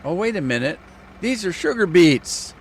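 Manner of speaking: oh no, these are beets; startled discovery of a mistake; sudden realisation. Real, not acted. Realises wrong crop loaded.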